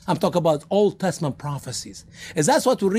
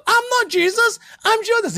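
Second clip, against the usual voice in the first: very high, loud desperate squeal; panicked protest; 3 dB louder than usual. Retold or imitated. Judas crying out to the soldiers, high panicked protest. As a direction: plead your innocence in panic.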